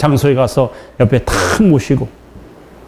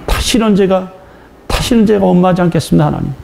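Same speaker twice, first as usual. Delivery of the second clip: tearful vow; 5 semitones higher than usual. Retold or imitated. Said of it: "울면서".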